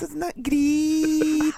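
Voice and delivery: very high, drawn-out gushing presenter; hammed-up squeaky TV host; Lorraine Kelly. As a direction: stretch it out in mock delight. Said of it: "Lorraine Kelly, hun, so tell me".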